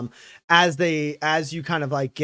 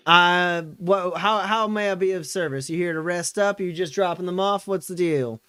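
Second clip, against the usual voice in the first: put-on higher, chatty old lady voice; old woman hostess; 4 semitones higher, 3 dB louder than usual. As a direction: play the fussy old innkeeper sizing them up. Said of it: "and she goes".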